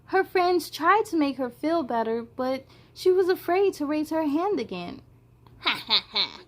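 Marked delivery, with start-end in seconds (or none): 5.6-6.4 monster laugh. Acted.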